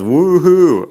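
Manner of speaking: high, loud mock cheer; playful echo of a viewer's cheer; imitating a cheer. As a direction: chirp it like a happy fan. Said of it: "there she says".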